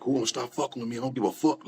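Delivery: retold scream. Telling how they snapped at coworkers, mock scream. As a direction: imitate an overwhelmed outburst without the volume. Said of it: "I screamed at everybody".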